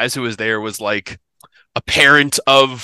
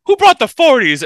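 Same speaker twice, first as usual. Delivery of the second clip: much higher and louder disbelieving ask; astonished question; 13 semitones higher, 7 dB louder than usual. Retold or imitated. Barbecue guests opening the cooler, loud amazed question. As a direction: sound like you can't believe what's in the cooler.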